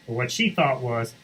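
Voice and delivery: ordinary delivery, nothing marked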